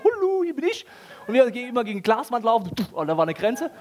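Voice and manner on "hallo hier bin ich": high, silly little voice; silly aquarium human. Acted. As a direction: chirp it like a goofy creature behind glass. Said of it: "wo wir Menschen drin sind und sagen".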